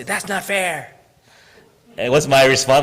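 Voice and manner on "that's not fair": a mock whiny student complaint. Teacher imitating students whining. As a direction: imitate a student grumbling that's not fair. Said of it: "They'll say".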